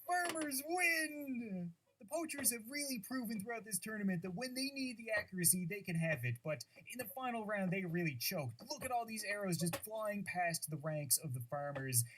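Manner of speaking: lightly voiced tournament announcer. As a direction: commentate the match with hype. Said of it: "that stupid announcer voice".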